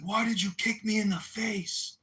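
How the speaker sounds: high-pitched imitation of a wounded protest; mock indignant complaint. Kicked attacker asking why, mock indignant.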